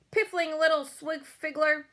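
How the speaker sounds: high, loud string of insults; furious tirade. A narrator's reading. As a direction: keep shouting the insults. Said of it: "he shouted".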